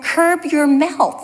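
mock a loud retort, drawing it out; retold loud retort. Walker answering back to the cyclist, retold loud retort. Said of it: "like, really loudly".

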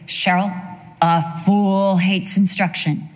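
slow, firm motherly rebuke; stern mother. Retold or imitated. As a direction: lay down the proverb slowly like mom did. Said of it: "she would say".

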